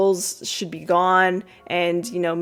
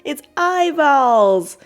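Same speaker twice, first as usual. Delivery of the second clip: slow, drawn-out spooky voice, louder; 7 semitones higher, 5 dB louder, much slower than usual. Retold or imitated. Kids spooking blindfolded Vanessa, slow spooky voice. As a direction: stretch it out like a ghoul.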